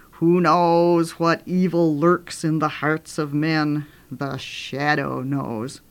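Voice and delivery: slow, ominous radio-mystery intonation; hushed, drawn-out old radio thriller announcer; The Shadow. Retold or imitated. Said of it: "one was called The Shadow".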